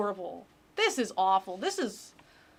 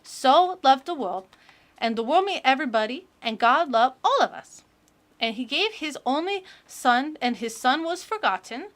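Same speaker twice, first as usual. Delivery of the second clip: put-on eager child reading her testimony, a touch louder; little kid voice; 3 semitones higher, 4 dB louder than usual. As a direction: gush like a proud little kid. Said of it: "the little kid voice that I'm doing".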